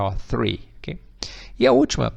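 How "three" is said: THREE opened with a blown TH; tongue-between-teeth TH. Shown as a demonstration. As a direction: demonstrate THREE, puffing air before the R. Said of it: "língua no meio dos dentes e assoprar". (three com língua entre os dentes, soprando)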